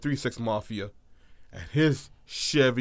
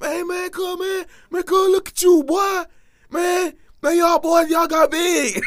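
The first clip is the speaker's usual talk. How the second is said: much higher, drawn-out greeting of a country cousin; 8 dB louder, slower than usual. Retold or imitated. Country cousins greeting the visiting boys, high hammed-up welcome. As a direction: play the loud country relative greeting the kids. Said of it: "legit countryside type of black folk".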